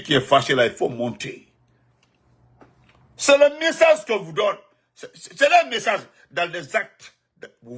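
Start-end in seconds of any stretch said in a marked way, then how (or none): 3.2-7.1 indignant exclamation. Real, not acted. Outraged exclamation.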